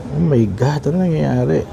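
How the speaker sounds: amazed bewilderment. Real, not acted. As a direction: marvel aloud, baffled by what just happened. Amazed at the changing watch face. (namamangha at nagtataka)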